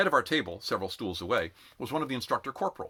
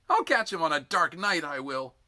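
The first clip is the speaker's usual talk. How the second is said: high, aggrieved complaining rant; 9 semitones higher than usual. A narrator's reading. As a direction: whine it out, seething. Sick recruit rants about sergeant.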